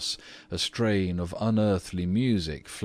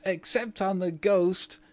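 put-on much higher, mischievous child voice; shrieking twins; 13 semitones higher than usual. A narrator's reading. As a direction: squeal "ghost" like a cheeky boy. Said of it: "shrieked the twins as they capered about".

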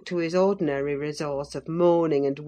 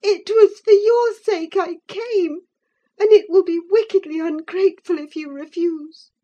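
put-on high, louder tearful girl's plea; crying reproach; 14 semitones higher, 8 dB louder than usual. A narrator's reading. Catherine tearfully reproaching her cousin Linton. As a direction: shame him through her tears.

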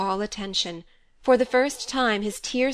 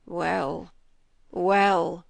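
moaning. A narrator's reading. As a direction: moan it in grief. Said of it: "moaned the".

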